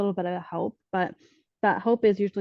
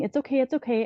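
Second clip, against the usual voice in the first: retold soothing, a bit higher, gently repeated; soothing reassurance; 5 semitones higher, faster than usual. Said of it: "so I just kept saying".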